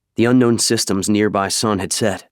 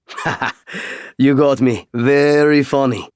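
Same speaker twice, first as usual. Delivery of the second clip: grudging; 6 semitones higher, 3 dB louder than usual. Acted. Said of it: "becoming a grudging smile".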